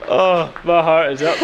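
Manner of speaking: high shrieking fright into laughter; startled shriek. Real, not acted. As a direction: jump out of your skin, then laugh. Startled by bird in cave.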